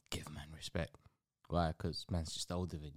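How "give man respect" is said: whispered. Retold or imitated. Voiced elder, unvoiced.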